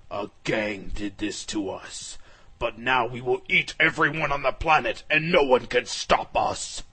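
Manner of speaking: threatening dragons. Acted. Rogue dragons threaten everyone.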